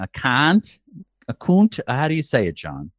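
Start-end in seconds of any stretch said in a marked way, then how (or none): 0.0-0.8 "cunt" in a New England accent, open vowel; lightly put-on New England "cunt". Shown as a demonstration. Asking John how New Englanders say it, New England accent. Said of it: "What's it with a New England accent?". 1.3-1.8 "cunt" higher, in a mock New England accent; second, higher-pitched New England try at "cunt". Shown as a demonstration. Trying another way for John, exaggerated New England accent. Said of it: "What's it with a New England accent?".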